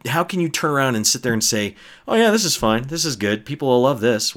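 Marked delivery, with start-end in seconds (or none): 2.1-4.3 sarcastic, higher cheerful yeah; mock approval. Mocking the filmmakers who approved it, with sarcastic cheer. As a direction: play the clueless studio, sneering.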